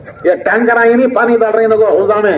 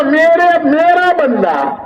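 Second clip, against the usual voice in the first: loving; 6 semitones higher, much slower than usual. Retold or imitated. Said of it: "پیار سے کہتا ہے اللہ".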